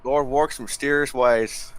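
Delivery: Southern preacher drawl; pious Southern old-timer; southern accent. Pretend. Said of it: "How's my southern accent".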